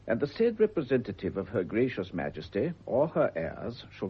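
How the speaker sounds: put-on reading an old decree aloud, measured; formal charter reading. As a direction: read it out like a solemn legal document.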